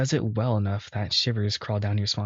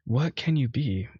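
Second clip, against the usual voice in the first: a hint of a devoted bull pleading; pleading servant. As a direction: beg him gently to understand you. Voicing Asterion pleading.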